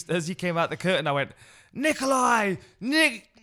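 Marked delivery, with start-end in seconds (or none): 1.7-3.3 high, loud announcer fumble; flustered stumbling call. Retold or imitated. Commentator botching the fighter's name on stage, loud high stumble. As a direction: belt the name then lose it.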